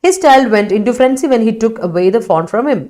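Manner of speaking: slow, even classroom read; slow dictation reading. Shown as a demonstration. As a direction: read it out slowly, word by word, for the class. Teacher reads student sentence aloud.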